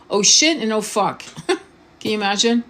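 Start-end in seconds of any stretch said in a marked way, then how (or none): 0.1-0.6 high startled "Oh, shit"; panicked yelp. Pretend. Repeating the crash example, a high alarmed yelp. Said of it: "most people say what before, right before an impact". 0.7-1.2 resigned curse. Pretend. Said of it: "most people say what before, right before an impact".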